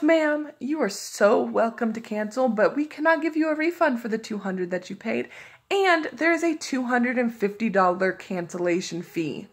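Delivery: imitating a sweetly polite rep who won't budge; mock polite agent. To the caller, imitating the agent in a mock polite voice. Customer service agent quoted.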